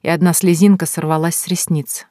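ordinary delivery

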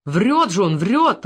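straining shout. Acted. A desperate poacher straining his voice to deny the charge. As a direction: yell yourself hoarse denying it. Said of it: "надрывался Зуев".

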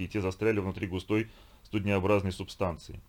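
usual speaking voice

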